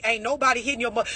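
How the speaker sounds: ordinary talk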